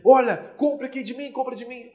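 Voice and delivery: high-pitched, pushy sales plea; desperate seller. Acted. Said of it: "a pessoa vê que tá desesperada". (vendedora desesperada, encenada, em tom agudo)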